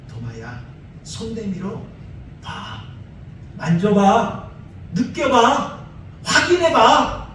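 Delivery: gentle coaxing. Retold or imitated. Jesus patiently inviting Thomas to touch his hands, gentle. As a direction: coax him step by step, no scolding. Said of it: "야단하지 아니하셨어요".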